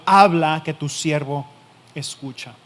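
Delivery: Habla called out loud, then que tu siervo escucha falling away; loud declaration. Acted. Preacher voicing Samuel's bold answer, loud then fading. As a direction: proclaim Habla with force, then let the rest drop.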